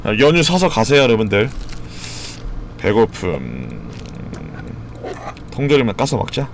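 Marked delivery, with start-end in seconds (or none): 2.8-3.9 much lower, dragged-out word; deep slow voice. Pretend. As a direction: drop low and stretch it. Reading hunger status in droll voice. (낮고 느리게)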